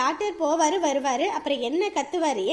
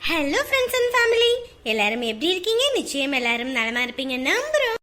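vlog outro. Acted.

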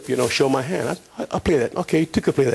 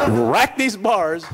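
laughing; 4 semitones higher, much slower than usual. Retold or imitated. Laughing mockery of jail release.

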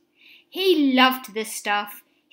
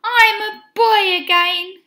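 high, loud exclamation of delight; joyful cry; 8 semitones higher, 5 dB louder than usual. A narrator's reading. Benny finds he is cured, high joyful cry. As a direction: cry out happily, pitched up. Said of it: "cried Benny".

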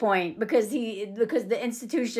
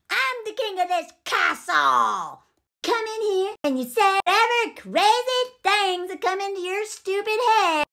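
mock angry rant; 7 semitones higher than usual. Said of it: "This is when Frank loses it".

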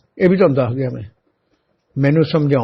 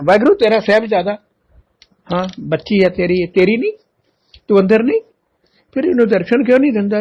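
pleading prayer; 5 semitones higher, faster than usual. Retold or imitated. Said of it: "ਅਰਦਾਸਾਂ ਹੀ ਕਰਦਾ ਰਹਿਣਾ".

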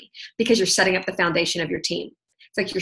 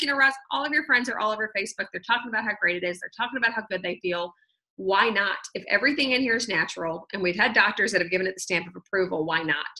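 calm persuading; 5 dB quieter, faster than usual. Retold or imitated. Husband reasoning with wife.

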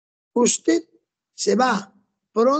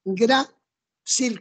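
"Grácil" split slowly, GRA, pause, cil; stress on first syllable. Shown as a demonstration. Teacher answering her own question, slow "Grácil" stressed on GRA. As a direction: hold GRA in "Grácil", then add cil. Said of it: "con tilde en la A".

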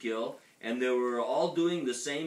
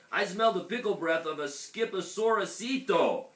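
loud, raised-pitch accusation; roaring dinosaur; 8 semitones higher, 6 dB louder than usual. A narrator's reading. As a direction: roar out what you have sniffed. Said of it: "roared the T-Mexito".

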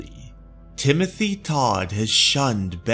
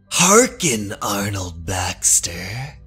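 booming pharaoh; 3 semitones lower than usual. Acted. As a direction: call him from beyond the grave. Pharaoh's spirit speaks from beyond.

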